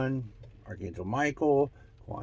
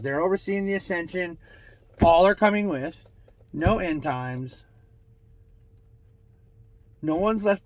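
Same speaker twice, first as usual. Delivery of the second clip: higher, louder declaration; channeled proclamation; 5 semitones higher, 6 dB louder than usual. Acted. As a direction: declare each phrase like a decree from above.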